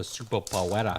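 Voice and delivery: "superpoweras" ending in Spanish-style "-ras"; mocking mispronunciation. Joking about Spider-Man with the ad's word, mock-Spanish "superpoweras". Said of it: "every time they say it".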